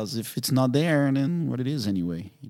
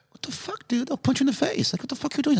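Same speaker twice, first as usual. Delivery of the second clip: mock outrage. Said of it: "I was like".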